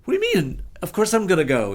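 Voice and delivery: very high, loud of course; how could you even ask; incredulous. Retold or imitated. Answering his protective friend, very high and incredulous. Insisting he will play.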